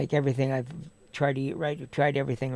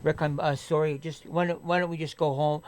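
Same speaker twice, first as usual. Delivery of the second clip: softer, easygoing reassurance; understanding, apologetic; 4 dB quieter than usual. Pretend. How he'd answer a sick friend, calm apology. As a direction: talk a friend down gently.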